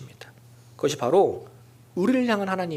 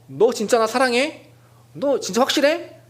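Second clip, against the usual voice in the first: mock interrogation; 5 semitones higher than usual. Jesus wrongly imagined as grilling Peter, mock demanding. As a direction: grill him like a suspicious lover. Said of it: "이런 얘기를 하는 게 아니에요".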